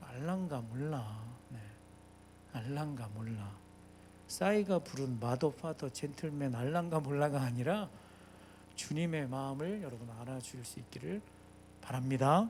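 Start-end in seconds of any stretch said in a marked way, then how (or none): 0.0-1.2 Jeolla regional speech. Speaking to the congregation about the Lord's heart, in Jeolla dialect. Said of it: "전라도 사투리로".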